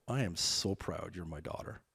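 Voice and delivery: soft, low and slow, heartfelt; tender pride. Retold or imitated. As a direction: drop the voice to reassure your daughter. Tender payoff after mock alarm.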